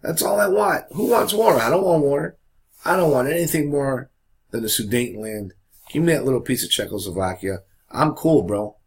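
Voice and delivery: mock-innocent, high-pitched casual protest; hammed-up "who, me?" denial; Hitler. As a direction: play it cool, voice jumping up high. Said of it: "So Hitler's playing the game. Hitler's like".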